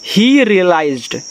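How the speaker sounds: drawn out word by word; very slow reading. Shown as a demonstration. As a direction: model the words for learners. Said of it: "तो एच से आपका हा".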